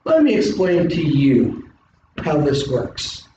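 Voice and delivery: slow, measured professor explaining; calm lecturing teacher, unhurried. Pretend. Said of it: "I stand in front of you in the classroom".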